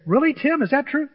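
high, loud mock disbelief; doubting listener. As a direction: play the sceptic in the pews. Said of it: "Now, you say".

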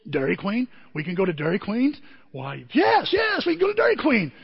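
excited shout. Retold or imitated. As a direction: burst out like a sick man revived by ice cream. Jerry's eyes light up.

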